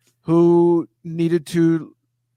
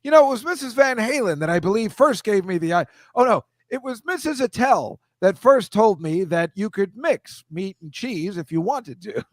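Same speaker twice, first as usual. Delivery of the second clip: a touch higher, chatty name-dropping host; mock rambling host; 5 semitones higher than usual. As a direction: ramble like a gossipy cooking host. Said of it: "just gonna talk like this".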